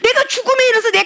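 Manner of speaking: high, crying preacher's voice; tearful cry. Real, not acted. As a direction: let the voice break with tears. Crying out in sermon. (울먹이며 높게)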